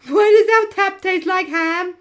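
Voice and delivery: loud, high-pitched outburst; shouting. Real, not acted. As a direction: yell it out in disbelief. Shouting the joke, laughing.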